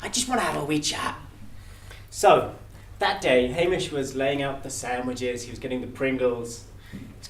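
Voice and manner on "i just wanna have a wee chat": a cheery Death leaving a voicemail, laughing; Death's voicemail. Acted. Death leaving Hamish a voicemail, chuckling Scottish voice. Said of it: "He left a voicemail saying this".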